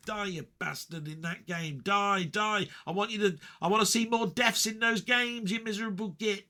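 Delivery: playful jeering at a friend's deaths; mock gloating ghost. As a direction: taunt the player from above. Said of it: "I'd be looking down and going".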